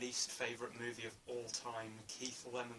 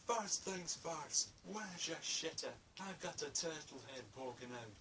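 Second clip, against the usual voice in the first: Fat Bastard impression; 5 semitones higher than usual. Fan quoting Fat Bastard's entrance in a hammed-up Scottish voice. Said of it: "Fat Bastard comes in and he's like".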